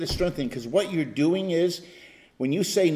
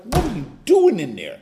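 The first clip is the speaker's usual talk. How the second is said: a mock nagging voice, a little higher; tempting thoughts; 5 semitones higher, 4 dB louder than usual. Pastor voicing temptations nagging him on the drive, lightly voiced. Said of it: "they were just like".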